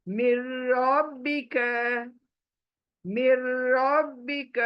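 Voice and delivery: मिर रब्बिक with the र merged in, no nun; recited example. Shown as a demonstration. Teacher demonstrating the merge to students, recited. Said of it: "मी से रॉ पर jump करेंगे".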